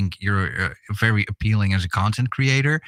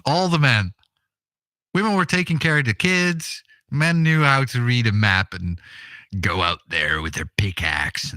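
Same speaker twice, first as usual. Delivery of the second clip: half-joking with a smile; smiling voice. Pretend. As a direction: say it grinning, tongue in cheek. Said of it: "I can hear the smile in your voice".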